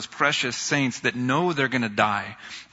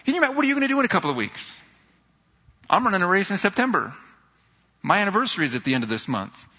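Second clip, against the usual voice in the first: excited quoting; 7 semitones higher, much faster than usual. Retold or imitated. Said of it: "but he's like".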